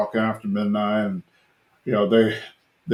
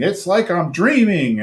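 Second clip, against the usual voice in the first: higher-pitched imitation of awed commentators; mock gushing; 6 semitones higher than usual. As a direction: gush in playful mock wonder.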